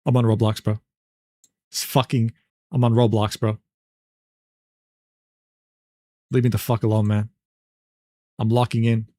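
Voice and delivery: low, fed-up gamer voice; annoyed Kirby. Acted. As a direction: brush them off from deep in a game. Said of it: "To which Kirby said".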